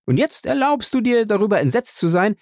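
unleash years of resentment; bitter rage. Acted. Ray accuses father angrily. (verbittert wütend zum Vater)

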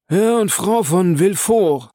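high, ringing servant's announcement; called-out announcement. A narrator's reading. Baptistin announces arriving guests to the salon, calling out. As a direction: call the guests in formally. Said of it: "rief Baptistin".

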